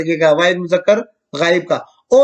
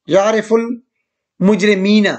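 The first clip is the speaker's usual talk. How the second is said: drawn-out recitation; much slower than usual. Shown as a demonstration. Teacher recites changed verse.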